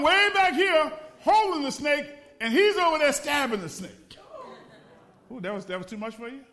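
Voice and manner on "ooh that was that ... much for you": mock teasing. Mocking scared pastor.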